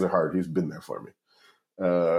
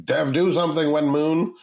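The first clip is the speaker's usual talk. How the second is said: mock yell; 7 semitones higher, 3 dB louder than usual. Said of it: "mouth breathers yelling".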